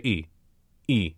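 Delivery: "e" said with lips kept round as for oo. Shown as a demonstration. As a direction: keep the "oo" lips and say "e". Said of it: "Now say".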